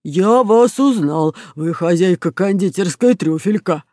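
slow, drawn-out crook voice; cartoon robber, surprised; robber Bruno in recognition. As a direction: start loud and stretched as it dawns.

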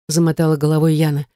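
plain reading voice

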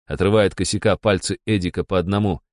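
plain reading voice

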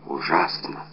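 потрясённый шёпот, тише; выдохнуть в ужасе почти беззвучно. Acted. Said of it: "шептал Атос". (Атос в ужасе шепчет над умершим)

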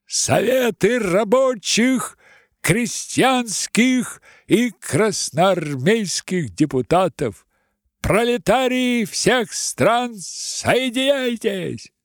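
high, slow, loud slogans; drawn-out revolutionary oratory; orator declaiming. Acted. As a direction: chant it out to the masses.

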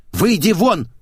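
loud, angry bark; barked order. Acted. Man barking at the maid to get out, angry. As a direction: bark him out the door. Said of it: "рявкнул я".

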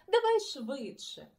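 loud urgent call; hurrying. Acted. Boy hurrying friend out of bed, loud urging. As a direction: rush him along. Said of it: "квапив Марусик".

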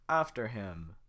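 head guard ordering the chase. Acted. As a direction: send them running.

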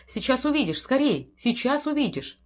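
high, breathless urging; urgent panic. Acted. Wife urging husband up to the attic, high panicked urging. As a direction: hurry him along, terrified. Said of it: "задыхаясь".

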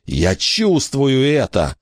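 high slow anguished moan. A narrator's reading. Billy moaning as he feels the lost hand. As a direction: groan out the pain. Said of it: "простонал он".

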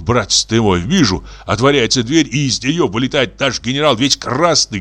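plain reading voice

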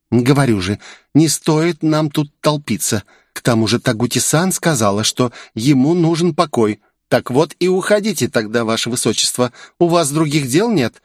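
put-on narrator's light girl voice; girl's voice. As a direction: shoo the others out, ironic princess address.

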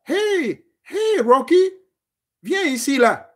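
high, called out to a dog; calling a dog. Retold or imitated. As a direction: call the dog over warmly from afar. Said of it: "la personne qui va vous donner ce chien-là dira".

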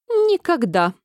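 the queen snaps back, offended; angry exclamation. A narrator's reading. Queen denies it to the king, angrily exclaiming. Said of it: "гневно воскликнула королева".

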